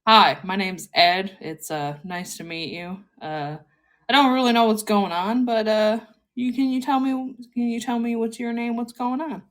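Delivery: a dim friendly guy, lightly done; Kronk voice. Shown as a demonstration. Showing character voice to cohost, lightly dopey. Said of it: "he kinda talks like this".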